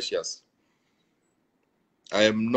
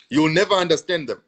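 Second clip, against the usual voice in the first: emphatic; 5 semitones higher, 4 dB louder, faster than usual. Real, not acted. Emphatic repeat to his viewers.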